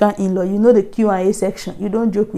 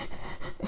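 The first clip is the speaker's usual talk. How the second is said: quick, unvoiced puffs of breath; imitated panting; 18 dB quieter than usual. Recalling the walk to the front door, mock panting. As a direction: mimic a racing heart with panted breath. Imitates her racing heart.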